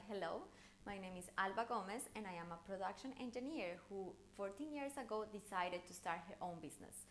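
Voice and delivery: steady, even, businesslike tune with little movement; credible delivery. Shown as a demonstration. Introducing herself at a meeting, in a flat credible tone. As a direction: state the facts evenly, like someone who means business. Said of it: "there's a more flat intonation".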